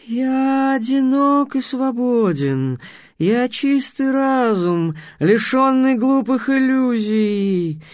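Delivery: slow, high, haughty anger; angry sphinx. A narrator's reading. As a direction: proclaim it in wounded pride. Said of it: "гневно замолотив крыльями".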